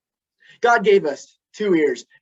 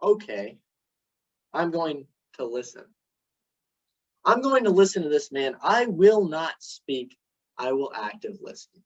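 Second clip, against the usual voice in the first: resolved inner decision; 4 semitones lower than usual. Retold or imitated. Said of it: "there's a point where I decide".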